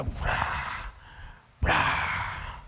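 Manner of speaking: breathy crash sound effect; crash noises. Retold or imitated. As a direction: mimic shelves crashing down. Things knocked off shelves.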